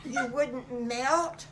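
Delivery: a hint of wide-eyed wolf cub; amazed little wolf. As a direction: marvel slowly at a big discovery. Little wolf reveals his discovery.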